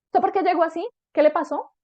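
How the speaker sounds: high, insistent mock interrogation; pushy parental questioning, acted; pressuring parent. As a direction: grill your child the moment they arrive. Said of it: "de esa manera a presionar".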